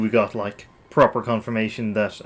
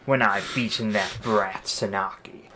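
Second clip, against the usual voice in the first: gloating villain. Acted. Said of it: "time for some senator voices".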